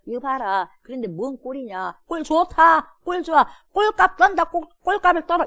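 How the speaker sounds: high, loud sneering taunt; mock the captives to their faces; taunting jeer. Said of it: "이러는 거예요". (포로를 놀리며 큰 소리로 비아냥)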